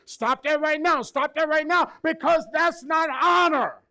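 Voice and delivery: starts firm, climbs high and loud to a shout; building to a shout. Shown as a demonstration. Preacher modelling stopping negative talk, building shout. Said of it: "you could be nice about it".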